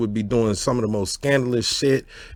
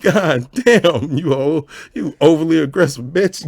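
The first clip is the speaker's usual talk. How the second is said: mock yell; 5 semitones higher, 5 dB louder than usual.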